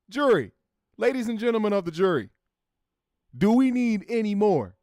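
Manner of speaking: lightly voiced lawyer addressing jury; passionate closing argument. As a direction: play it like a courtroom closing.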